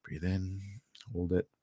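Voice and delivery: soft, calm breathing cue; guided breathing. Shown as a demonstration. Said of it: "I want you to breathe in through your nose".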